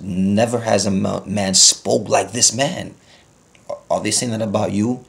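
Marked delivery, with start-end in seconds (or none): 0.0-2.9 slow, emphatic scripture quote; quoting scripture. Acted. Preacher quoting the Bible to his congregation, slow and emphatic. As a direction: draw out every word of the verse. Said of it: "and the Bible says".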